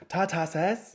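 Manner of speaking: high, rising query on "sauce", vowel like "sass"; questioning. Real, not acted. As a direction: question your own odd "sauce", saying "sass". Queries own odd pronunciation.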